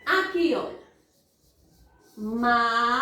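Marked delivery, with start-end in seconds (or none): 2.2-2.9 "Matemática" in separate, lengthened syllables; long pause after each syllable. Shown as a demonstration. Teacher splits word into syllables. (silabando bem devagar)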